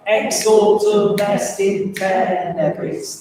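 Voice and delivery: "Exortum Est in tenebris" said slowly in strict rhythm; slow, measured diction on Exortum Est in tenebris; spoken in rhythm. Shown as a demonstration. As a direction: stretch each syllable of Exortum Est in tenebris evenly. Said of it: "Should we just say that".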